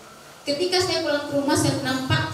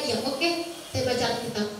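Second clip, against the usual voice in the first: softer, as if thinking to oneself; inner voice; 5 dB quieter than usual. Retold or imitated. Child privately answering mother about reading Alkitab, quiet inner voice. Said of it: "Dalam hati saya".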